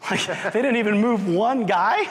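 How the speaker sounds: high, laughing mock instructor; laughing disbelief. Instructors laughing at the team, high and amused. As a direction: laugh at how bad it went. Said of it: "the instructors are like".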